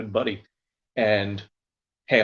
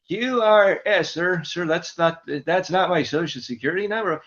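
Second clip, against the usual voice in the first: pitched-up exasperated clerk; 7 semitones higher than usual. Retold or imitated. Clerk correcting Buddy's number, pitched-up and patient. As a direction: correct him patiently, higher.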